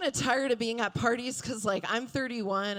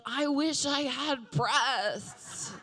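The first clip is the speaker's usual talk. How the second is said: wistful Bruce; 5 semitones higher, much slower than usual. Retold or imitated. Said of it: "he's like".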